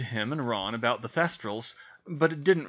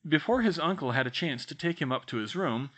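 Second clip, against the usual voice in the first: usual speaking voice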